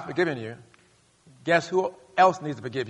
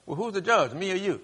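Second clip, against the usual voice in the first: voicing God; 4 semitones higher than usual. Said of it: "God says".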